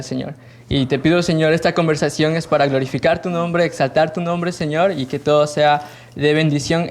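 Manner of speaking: a calm spoken prayer before the interview. Real, not acted. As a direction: pray over the session, unhurried. Host leads opening prayer.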